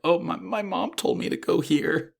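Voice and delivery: high, hesitant imitation of a shy girl; very sheepish. New student answering curious classmates, acted very sheepishly. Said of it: "like, very sheepishly like".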